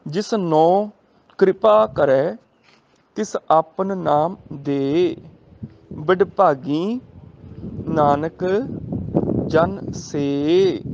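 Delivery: slow, measured scripture recital; gurbani recitation. Shown as a demonstration. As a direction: draw each word out reverently. Recites gurbani line slowly. (ਹੌਲੀ ਪਾਠ ਦੀ ਲੈਅ)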